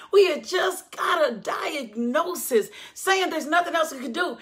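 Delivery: crying while preaching; tearful preaching. Real, not acted. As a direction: voice catching with tears. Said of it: "Did y'all hear what I said?".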